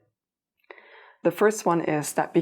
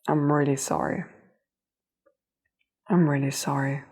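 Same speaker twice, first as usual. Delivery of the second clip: teary-eyed. Real, not acted. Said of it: "I'm getting a bit teary-eyed now".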